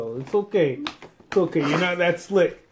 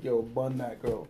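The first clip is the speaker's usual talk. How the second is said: inner voice, quiet; 5 semitones lower, 10 dB quieter than usual. Retold or imitated. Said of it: "My first instinct in my head is like".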